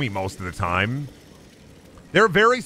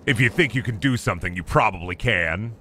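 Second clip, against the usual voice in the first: low, deep mock-wise voice; mock motivational; 4 semitones lower than usual. Gamer reciting a motivational meme line, deep mock voice. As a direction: deliver it like a gruff mentor.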